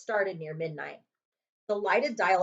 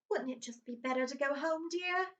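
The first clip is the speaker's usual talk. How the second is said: higher, timid pleading wife voice; timid Aunt Petunia; 7 semitones higher, 4 dB quieter than usual. Acted. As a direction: coax him meekly, voice pitched up. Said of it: "Aunt Petunia suggested timidly".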